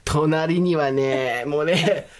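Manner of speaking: low, drawn-out warning about a rival; lightly acted, ominous slow build; mock contest commentary. Commentator introducing the rival from Canada, mock ominous.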